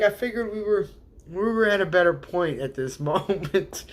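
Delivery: playful exasperated quote; mock exasperation. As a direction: imitate a fed-up viewer, half laughing. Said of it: "they were like".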